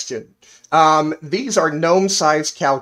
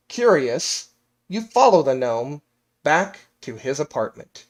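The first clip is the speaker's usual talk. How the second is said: measured storyteller reading aloud; game master narration. Acted. Game master tells players the backstory, storytelling narration.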